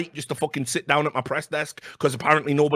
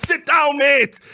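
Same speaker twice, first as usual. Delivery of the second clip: angry shout; 11 semitones higher, 5 dB louder than usual. Retold or imitated. Squaring up to the journalist again.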